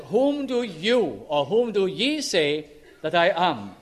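slow, leaning on YOU; you said with heavy emphasis; emphatic you. Shown as a demonstration. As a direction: press hard on the word you. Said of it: "very emphatic word".

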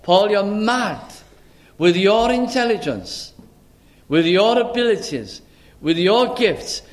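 high, emphatic remonstrating with Paul; incredulous critics. Acted. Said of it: "what the majority of people would have said".

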